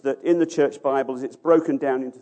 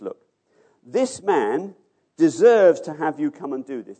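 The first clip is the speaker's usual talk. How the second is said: mildly urgent pleading, louder on deserves; earnest plea; 6 dB louder than usual. Acted. Elders urging Jesus to come and help, earnest pleading. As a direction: plead sincerely, leaning on the key word. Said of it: "They plead earnestly".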